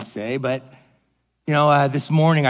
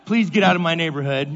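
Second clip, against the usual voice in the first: polite plea spoken through laughter; laughing mock politeness. Pastor joking to the church about cussing out the owner, laughing. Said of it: "I said".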